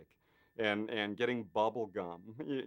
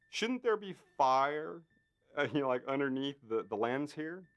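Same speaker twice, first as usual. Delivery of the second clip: Carpenter asking; 5 semitones higher than usual. Retold or imitated. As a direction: act out the director's bright idea. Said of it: "Carpenter goes".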